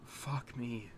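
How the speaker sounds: whispered curse under his breath. Real, not acted. Overwhelmed viewer whispers to himself after the sad episode.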